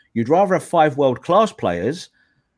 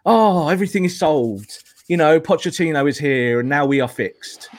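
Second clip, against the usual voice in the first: mock relief.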